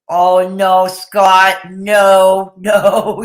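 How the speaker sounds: loud laughing no no; laughing protest. Real, not acted. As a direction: laugh while scolding playfully. Laughing protest at chat joke.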